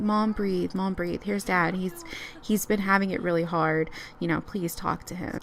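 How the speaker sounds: softly pleading son; calming. Acted. Son calming his mom down about dad, soothing. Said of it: "try his best to calm his mom down".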